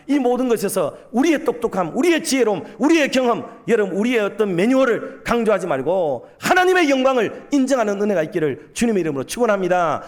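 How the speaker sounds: rousing pulpit exhortation, phrase by phrase; forceful preaching. Real, not acted. Preacher blessing the congregation, fervently. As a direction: drive each phrase home, then bless.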